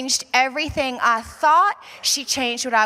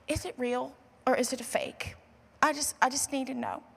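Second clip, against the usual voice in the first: 1 hushed plea; 8 dB quieter than usual. Retold or imitated.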